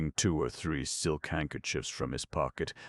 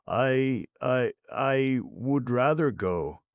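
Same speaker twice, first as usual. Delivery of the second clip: high, stammering, slow plea; frightened boy; 9 semitones higher, 7 dB louder, slower than usual. A narrator's reading. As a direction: beg to leave, stumbling. Oliver stammers, pleading.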